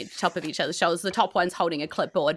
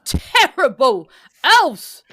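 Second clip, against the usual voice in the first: a jolly little helper asking kindly, high and laughing; jolly elf voice; 4 semitones higher, 7 dB louder than usual. Acted. Elf voice continues.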